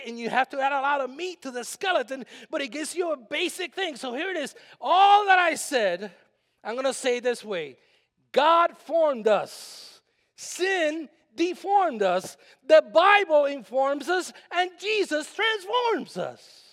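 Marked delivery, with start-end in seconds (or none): 4.8-16.6 rising preacher's cadence, slow and loud; preaching. Acted. Pastor preaching a rhyming summary to the congregation, loud and slow.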